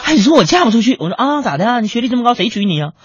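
high, loud smug retort; smug female doctor. Retold or imitated. Female doctor boasting to her date, high and smug. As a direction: gloat over the punchline.

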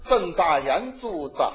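attempted Tianjin accent. Shown as a demonstration. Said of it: "我学学".

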